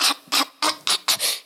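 string of short voiceless huffs; repeated breathy scoffs; mock huffing. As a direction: imitate a man huffing in a temper. Mimics his huffing while mad.

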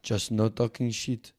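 lightly put-on French accent, haughty; a smug French dealmaker, mock accent. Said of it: "Fuck this French accent".

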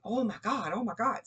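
high, loud astonished gasp; surprised staff. Retold or imitated. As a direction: imitate the stunned nurses. Staff reacting to the spike.

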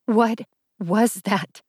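slow, trembling question; shaky voice. Acted. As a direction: let the voice shake with tears. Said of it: "voice shakier".

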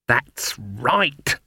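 restrained acted roar. A narrator's reading. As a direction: roar it without real volume. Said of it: "roared Granny".

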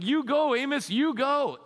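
high, loud egging on; excited crowd urging Amos on; fired-up cheering. Retold or imitated. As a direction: cheer the prophet on like a fan. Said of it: "getting kind of fired up and excited".

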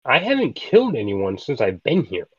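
high swooping protest of innocence; wounded denial with squeaky pitch jumps; indignant protest. Acted. Player protests in character to blacksmith.

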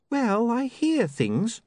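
put-on high, sharp young woman's voice; an offended, prim young lady; indignant young woman. Sacharissa tempted.

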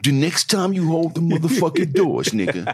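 train conductor threatening riders over the PA; mumbled subway intercom. Pretend.

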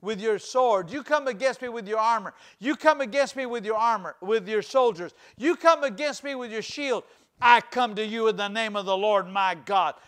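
defiant challenge. Retold or imitated. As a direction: stand tall and declare it. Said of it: "and said".

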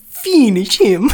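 loud, high, drawn-out game announcer; Mortal Kombat. Acted. Quoting a game as a catchphrase, loud announcer voice. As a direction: belt it like a fighting-game announcer. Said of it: "in, like, Mortal Kombat".

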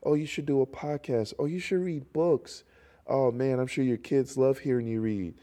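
imitating gushing fans. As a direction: gush like an admirer, lightly mocking. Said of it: "People always tell me all the time".

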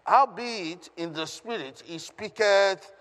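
measured, emphatic Bible reading; scripture reading aloud. Acted. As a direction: proclaim the verse phrase by phrase. Reads scripture aloud to congregation.

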